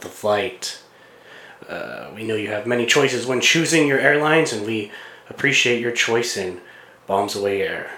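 calm pilot on the cabin speaker; over the intercom. Pretend. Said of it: "acting like pilots".

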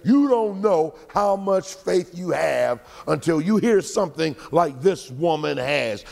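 ordinary talk, nothing marked

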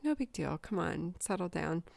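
mildly dismissive, imitating husband; lackadaisical. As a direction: play it down like nothing's wrong. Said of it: "like, lackadaisical".

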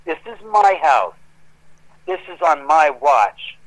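firm, emphatic telling-off, mildly angry; retold breaking point. Homeowner confronting the crew over the meltdown, retold with mild anger. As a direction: lay down the law, leaning on key words. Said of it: "It just, I broke".

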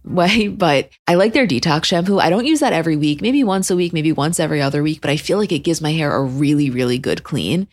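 upbeat sponsor ad read. Acted. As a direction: read it like a radio ad.

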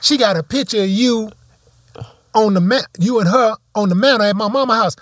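high mock insistence from the dude; retold dude.

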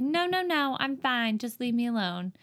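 high quick no no no, lightly voiced; mildly imitated daughter pushing parents away; hurried brush-off. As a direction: wave the parents off in a fake sick voice. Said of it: "She's like".

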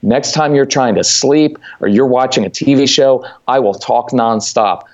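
mock warning to kids. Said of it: "And I let them know".

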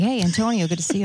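lightly imitated Italian accent greeting; put-on Italian greeting; mock Italian accent. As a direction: imitate an affected Italian accent, breaking into amusement. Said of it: "talking like this".

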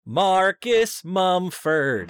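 very slow, drawn-out announcement of the name; dramatic reveal. Acted. Co-host unveils who oversees the soundtrack, dramatic reveal.

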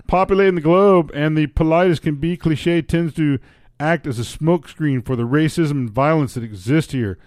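put-on Canadian accent. Reading a Canadian's column aloud, in Canadian accent. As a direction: read it as a comic Canadian. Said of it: "give up the accent".

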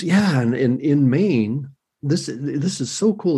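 mildly voiced eager caller; retold excitement. History buff calling back about Maine stories, retold excitement. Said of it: "he went ballistic".

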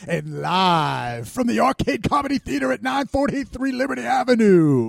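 smooth, loud late-night radio voice; sultry seventies DJ. Pretend. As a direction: croon it like a seventies radio host. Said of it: "you sounded like a sultry seventies D J".

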